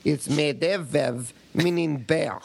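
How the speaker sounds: lightly put-on Russian accent reading an email; a hint of a Russian accent; mock Russian accent. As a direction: read it like a Russian, hammed-up. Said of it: "do it in a Russian accent".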